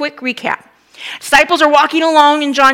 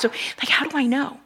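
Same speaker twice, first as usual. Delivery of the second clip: hesitant doubt; 9 dB quieter than usual. Retold or imitated. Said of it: "Others would have been like".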